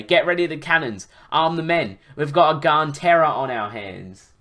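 animated, emphatic story reading; story narration. A narrator's reading. Narrator recounting a dragon rescue to listeners, animated storytelling. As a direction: read the adventure out with drive.

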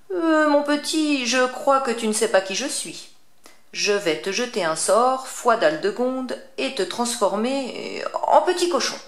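a witch promising a spell; threatening witch. Acted.

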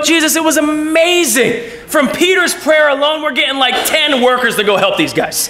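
high, eager report with a shout; excited disciples. Retold or imitated. Disciples telling Jesus about their prayers, excited. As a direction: burst out with the good news.

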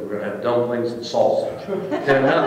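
a laughing, hammed-up German accent; bad German accent. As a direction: put on a clumsy German accent for the menu. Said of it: "my German accent isn't so good".

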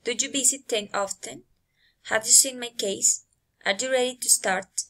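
questions tipping upward on "often", "case", "start"; rising intonation. Shown as a demonstration. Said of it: "rising intonation".

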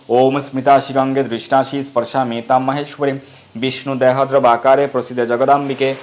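even, measured Sanskrit chant; mantra recitation. Acted. Devotee touching the Ganga water, measured recitation. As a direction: intone it steadily as a prayer.

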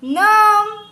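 loud, high, drawn-out word; reading out loud. Shown as a demonstration. Teacher models a word for children, loud and drawn out. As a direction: sound it out loudly on a held high note. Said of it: "પાછા વાંચજો મોટેથી".

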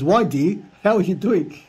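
reading the scammer's "why dear" in a sweet mock tone. Comic reading of the scammer asking why dear, a light mock voice.

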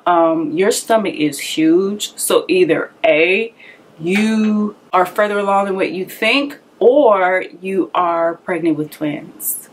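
slow, deliberate doctor voice, lightly put on; imitating the doctor. She mimics the doctor telling her it's twins, slow and deliberate. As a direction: spell out the options like a matter-of-fact doctor.

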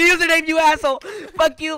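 heated gamer outburst; angry yell. Real, not acted. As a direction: yell an insult to drive someone off. Yelling at player who came near.

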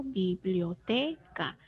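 biblioteca said slowly, TE drawn out; stress on TE. Shown as a demonstration. Teacher showing the class the sílaba tónica, biblioteca slow with stress on te. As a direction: stretch biblioteca, leaning on the syllable te. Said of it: "La sílaba tónica es la sílaba T".

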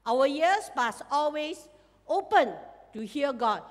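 normal talking voice

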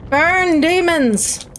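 drawn-out demon-slayer cry; mock battle cry. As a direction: call it out at the demons, playfully fierce. Calling out at game demons.

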